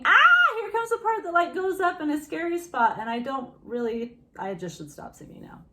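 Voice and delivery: high, loud mock panic about a high note; teacher mocks a nervous student's thoughts; anxious singer. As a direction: play the worried singer. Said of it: "instead of thinking".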